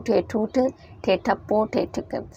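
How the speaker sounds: ठे ठूठ, ठे ठप्पो, ठे ठिकर read carefully, fading at the end; final reading of the drill. Shown as a demonstration. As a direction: read it again for the children. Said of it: "पढ़ के बता देती हूँ".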